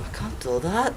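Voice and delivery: laughing through the refusal; nervous laugh. Acted. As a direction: giggle it out nervously.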